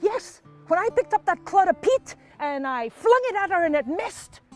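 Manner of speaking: eager husband. Acted. Husband recounts his throw.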